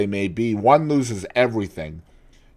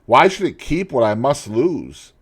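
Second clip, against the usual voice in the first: despairing outburst; 6 semitones higher, 7 dB louder than usual. Acted. Dorian's despair.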